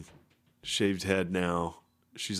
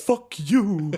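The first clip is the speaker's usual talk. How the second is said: much higher, slow, laughing; outraged and pitched up; indignant high voice; 12 semitones higher, 6 dB louder than usual. Retold or imitated. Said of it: "he was like".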